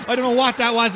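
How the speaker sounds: laughing in disbelief. Real, not acted. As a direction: laugh through the words. Commentator laughs at the incident.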